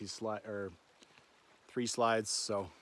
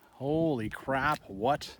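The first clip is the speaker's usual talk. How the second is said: awed; 5 dB louder, much slower than usual. Real, not acted. Sudden view opens up.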